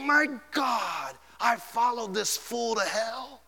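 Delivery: a damned soul realising too late; mock anguished outcry; regret and horror. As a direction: cry out, then sink into dread. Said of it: "Regret and horror".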